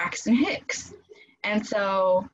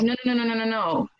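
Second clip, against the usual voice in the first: urgent protest; 5 semitones higher, faster than usual. Retold or imitated. Friend urgently cuts her off.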